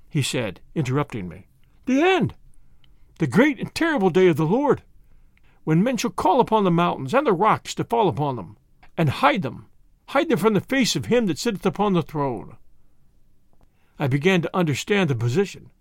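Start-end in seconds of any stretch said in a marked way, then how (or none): 1.9-12.6 a hint of a frightened preacher quoting scripture; lightly voiced doom-preaching curate. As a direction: proclaim the end of days as a shaken priest. Curate quotes scripture in dread.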